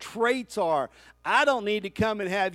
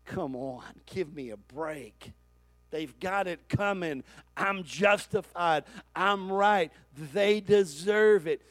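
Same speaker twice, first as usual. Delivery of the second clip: mock exasperated protest; slower than usual. Preacher voices listeners objecting to blessing enemies, mock exasperated protest.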